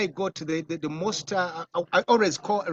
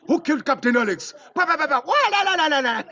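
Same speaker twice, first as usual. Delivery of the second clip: high, loud, ecstatic shouting; excited fan shout; 8 semitones higher, 6 dB louder, faster than usual. Retold or imitated. Late-night caller shouting to the filmmaker, high and loud. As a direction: yell it like a thrilled fan calling at midnight.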